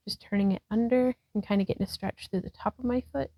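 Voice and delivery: breathless, rushed words; talking while winded; out of breath. Real, not acted. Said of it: "I don't know why I'm out of breath".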